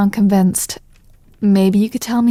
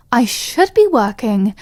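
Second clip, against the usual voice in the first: usual speaking voice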